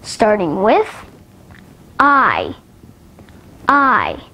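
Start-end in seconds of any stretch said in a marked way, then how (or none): 2.0-4.2 gliding "I" as in light; isolated "I", drawn out like the vowel in fire; diphthong demo. Shown as a demonstration. Teacher showing learners diphthongs, "I" as a full glide. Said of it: "at the diphthongs".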